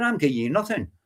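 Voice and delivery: normal talking voice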